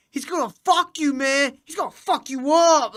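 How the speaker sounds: high, loud mock taunting; imitated high-pitched trash talk; Sarah Silverman. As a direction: jeer like a girlfriend egging on a fight. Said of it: "talking mad shit".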